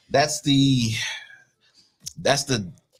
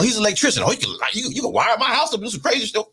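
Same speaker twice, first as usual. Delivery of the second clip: high woman's voice; 10 semitones higher, faster than usual. Retold or imitated.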